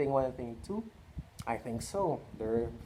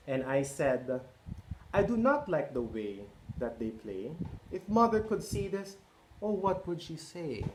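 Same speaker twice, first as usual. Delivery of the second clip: lively picture-book read-aloud; reading to children; 3 semitones higher than usual. A narrator's reading. Parent reading Cat in the Hat to children, lively. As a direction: read it out to a roomful of kids.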